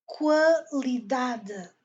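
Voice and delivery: qualidade very slow, syllables spaced, DA stressed. Shown as a demonstration. Teacher models qualidade slowly, stress on DA. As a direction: stretch qualidade out as qua-li-DA-de. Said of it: "On donne accent sur D A".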